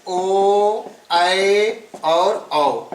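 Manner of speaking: ऐ और औ drawn out very slowly; slow listing. Shown as a demonstration. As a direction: dwell on each vowel. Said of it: "इन दीर्घ स्वरों में ए". (बहुत धीरे ऐ और औ)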